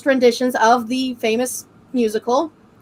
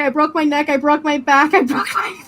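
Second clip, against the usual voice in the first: laughing quote; 2 semitones higher than usual. Retold or imitated. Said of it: "Grinder Games goes".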